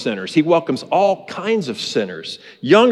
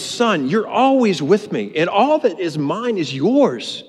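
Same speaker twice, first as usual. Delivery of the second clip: slow, higher, gentle father's voice; tender father; 5 semitones higher, slower than usual. Retold or imitated. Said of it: "The father says".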